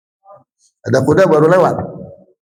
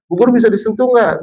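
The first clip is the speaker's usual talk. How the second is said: lightly voiced sweet teacher, higher; kindergarten teacher voice; 6 semitones higher than usual. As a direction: talk sweetly to small children. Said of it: "seorang guru mengatakan gini".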